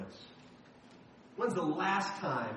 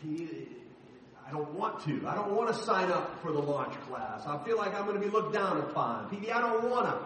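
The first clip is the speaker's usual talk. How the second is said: whiny reluctant member; 2 semitones higher than usual. Retold or imitated. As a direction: whine your excuses like a reluctant volunteer. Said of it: "leaning on my own understanding".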